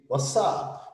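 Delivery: "what's up" as "wassap", t dropped; "what's up" eased into "wass-ap"; reduced pronunciation. Shown as a demonstration. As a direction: drop the t in "what's up". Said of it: "E nem diria".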